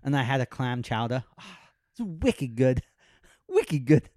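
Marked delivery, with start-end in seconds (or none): 1.4-2.8 put-on light Boston accent, a bit slow. Bragging about Boston clam chowder in a mock Boston accent. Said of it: "trying to do a Boston accent". 3.5-4.1 louder, hammed-up Boston accent on "Wicked good". Retrying the Boston accent, a bit louder. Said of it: "I can't do it".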